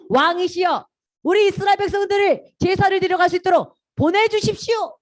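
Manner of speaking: high, projected plea to a king; declamatory appeal, pitch held high; formal petition. Acted. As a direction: proclaim it like a royal envoy. Moses petitions Pharaoh formally.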